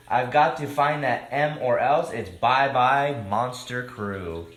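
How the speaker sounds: lively picture-book read-aloud, rhyming; reading to children. A narrator's reading. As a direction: read it like story time for kids.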